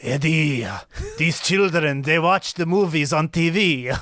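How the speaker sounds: put-on frail old man, slow and creaky. Shown as a demonstration. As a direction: play a very old man talking to Eddie. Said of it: "give us a taste of your old man voice".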